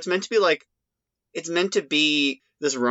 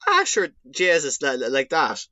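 a hammed-up stage Irish accent; broad stage Irish; 3 semitones higher than usual. Voice actor mimicking his exaggerated stage Irish accent. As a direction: play up the Irish accent like a cartoon vampire. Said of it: "So I was talking like".

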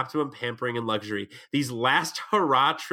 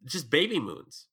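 stuffy nose; 4 dB quieter, slower than usual. Real, not acted. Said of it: "I'm sick and I knew that I wasn't enunciating properly".

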